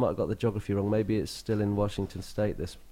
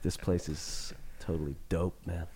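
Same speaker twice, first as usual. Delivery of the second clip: put-on slow, laid-back stab at an American accent; 3 semitones lower, 4 dB quieter than usual. Band member asked by the radio host for his best American accent, slow and laid-back. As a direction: drawl it out like a cool American dude. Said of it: "your best, um, American accent".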